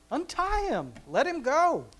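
ringing command to untie him; commanding Jesus. Acted. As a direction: call out the order to free him.

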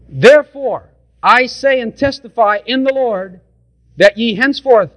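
measured King James reading; scripture reading. Real, not acted. Preacher reading Ephesians to the congregation, measured scripture voice. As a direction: read it out like holy writ.

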